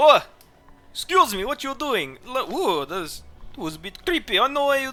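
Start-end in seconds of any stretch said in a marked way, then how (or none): 0.9-4.4 fake Slavic accent, pitched higher. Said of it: "the general Slavic accent".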